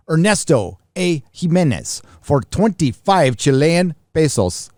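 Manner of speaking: lightly slipping into a Spanish accent; a touch of Latin American Spanish accent; Spanish-sounding accent. Real, not acted. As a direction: read the name and pesos with a Spanish lilt. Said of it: "I'm speaking with an accent right now".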